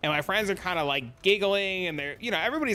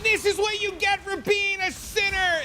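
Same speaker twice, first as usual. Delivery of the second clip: chainsaw haunt actor. Retold or imitated. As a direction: play the spooky chainsaw actor taunting her.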